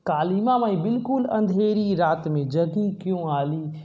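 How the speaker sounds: recites the poet's words to the koel; a touch of pleading address; poem recitation. Shown as a demonstration. Teacher voices the poet calling to the koel, lightly recited. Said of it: "फिर कवि कहता है कोयल से".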